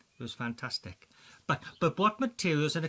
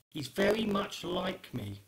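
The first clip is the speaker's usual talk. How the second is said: mock deep voice; slower than usual. Boasting he looks like the quizmaster, in a mock deep voice. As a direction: drop into a comically low, slow voice.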